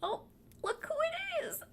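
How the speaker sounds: soft unvoiced whisper. Real, not acted. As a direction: whisper it to the cat. Cat arrives, whispered greeting.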